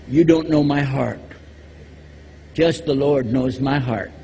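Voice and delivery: mocking a churchgoer's excuse; mock self-righteous excuse. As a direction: hold up the excuse with a lightly voiced sanctimonious tone. Mimicking the excuse.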